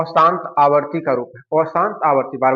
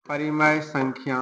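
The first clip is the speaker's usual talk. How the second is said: slow dictation; 5 dB quieter, slower than usual. Real, not acted. Writing out the answer while speaking.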